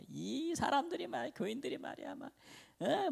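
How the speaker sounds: high-pitched mock Gyeongsang grumbling; Gyeongsang dialect griping. Young pastor griping about his church members, exasperated Gyeongsang dialect. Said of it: "막 경상도 사투리로".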